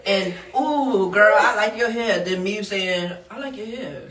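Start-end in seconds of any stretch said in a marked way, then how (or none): 0.6-2.2 put-on bubbly girlfriend compliment; girly compliment. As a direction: gush like a girlfriend. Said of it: "I don't have a feminine ass voice".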